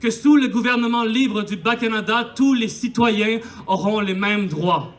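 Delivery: measured, formal proclamation; solemn declaration. Acted. Patriot reading the independence declaration to the people, solemn proclamation. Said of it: "en avaient fait une déclaration".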